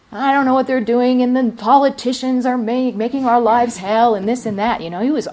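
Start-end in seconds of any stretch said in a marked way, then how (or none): 0.1-4.1 indignant rant. Retold or imitated. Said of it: "It's like".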